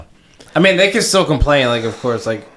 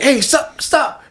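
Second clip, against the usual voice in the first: high-pitched mock "stop, stop"; panicked plea; 12 semitones higher, much slower than usual. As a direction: play a flustered bystander begging them to stop. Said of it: "you're just like".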